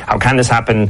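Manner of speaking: this pushed up a little; stress on this. Shown as a demonstration. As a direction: lean on the word this. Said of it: "put the emphasis on a different word".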